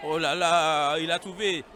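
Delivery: excited burst of commentary; loud, thrilled play call; long goal yell. Real, not acted. Commentator calls a good move.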